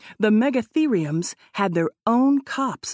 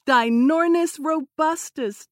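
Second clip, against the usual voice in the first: high excited squeak; squeaky; 8 semitones higher than usual. A narrator's reading. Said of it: "as he squeaked".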